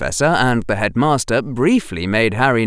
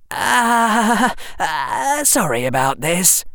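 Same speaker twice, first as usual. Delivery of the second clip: put-on higher, hesitant boy; lightly voiced flustered boy; flustered Harry; 11 semitones higher, slower than usual. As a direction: stumble over the apology.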